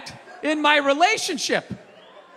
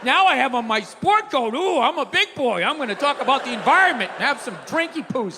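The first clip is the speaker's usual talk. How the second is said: childish mock narration; 3 semitones higher than usual. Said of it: "I'm just sitting there like".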